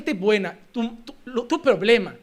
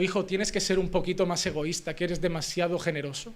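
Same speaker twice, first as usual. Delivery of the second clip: mock gentle parent; 5 semitones lower, 8 dB quieter than usual. Voices a parent gently advising child.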